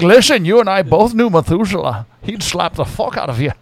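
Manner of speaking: light Scottish Connery voice; mild Scottish-accented Connery; Connery impression. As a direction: deliver it in a loose Scottish burr. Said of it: "He's like".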